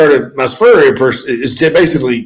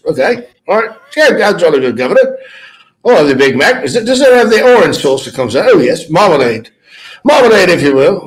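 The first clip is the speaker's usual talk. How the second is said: mock British accent; 5 semitones higher than usual. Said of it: "doing little voices".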